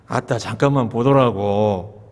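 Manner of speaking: slow, low Jeolla drawl; Jeolla dialect. Shown as a demonstration. Preacher showing the congregation Jeolla speech, slow low Jeolla drawl. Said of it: "그다음에 전라도는요?".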